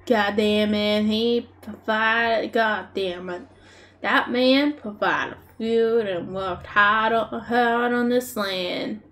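put-on slow, deliberate Australian bush accent; drawn-out attempt at bush Australian. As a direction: feel out the Aussie bush accent slowly. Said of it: "proper Australian bush".

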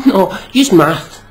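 a slow, mocking repeat of use math; mocking impression. Mocking Americans who say math, slow and sneering. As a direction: sneer the phrase back.

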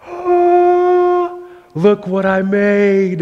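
put-on squeaky high, loud child's delight; proud little kid. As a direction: shout it high and slow like a kid showing off his toy.

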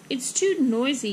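mild storybook yell. Acted. Mother talks over noisy park, mild yell. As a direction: raise the voice a little, as over noise. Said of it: "yelled her mother".

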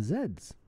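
Z's said as "zeds"; Canadian pronunciation. Real, not acted. Tutor reading out a toy store problem, Z's pronounced "zeds". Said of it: "Canadian way of pronouncing that letter".

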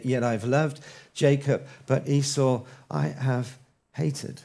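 slow, measured Bible reading; slow scripture reading. Shown as a demonstration. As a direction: read the verse deliberately and gravely. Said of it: "reading Malachi aloud".

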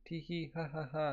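voiced cartoon tee-hee laugh; read-out giggle. Reading out characters' giggling.

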